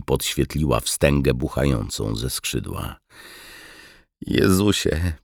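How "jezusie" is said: high, small squeal of dismay; frightened squeak. A narrator's reading. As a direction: squeak it out, pitched up. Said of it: "pisnął Wiśniewski". (wysoki, przestraszony pisk)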